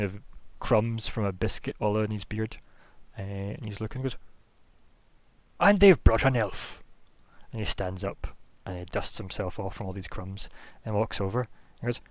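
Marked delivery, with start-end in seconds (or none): 5.6-6.8 put-on loud, higher, slow old-man voice; drawn-out befuddled old mage greeting; doddering old wizard. High Enchanter noticing First Page, loud slow old-man greeting.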